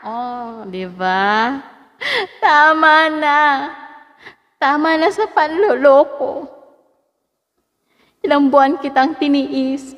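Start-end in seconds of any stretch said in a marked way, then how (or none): 2.4-10.0 loud, high soap-opera accusation; dramatic anger. Acted. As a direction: rage at a cheating lover. Acted breakup drama with echo.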